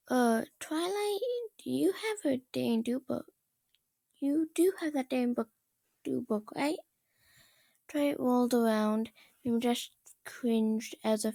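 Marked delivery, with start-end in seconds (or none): 0.1-6.8 a lightly higher, hesitant voice; timid pony. Acted. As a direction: Rainbow Dash nervously asking the angry princess, lightly higher and timid.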